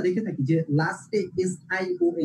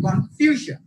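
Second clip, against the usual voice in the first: slow, higher কনফিউশন with ফিউ punched; stress before shon; 6 semitones higher, much slower than usual. Shown as a demonstration. Teacher clarifying for students, কনফিউশন stressed on ফিউ. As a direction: pull কনফিউশন apart and hit ফিউ. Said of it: "শন এর আগের যে সিলেবলটা".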